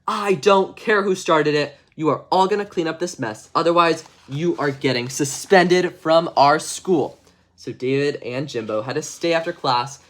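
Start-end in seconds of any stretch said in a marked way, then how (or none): 0.1-7.2 stern janitor. Acted. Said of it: "the janitor comes out and says".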